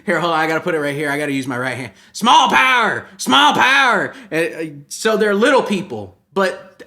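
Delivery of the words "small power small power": high, loud chant; high-pitched mock cheer; mock rallying cry. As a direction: holler it as a comic rally slogan.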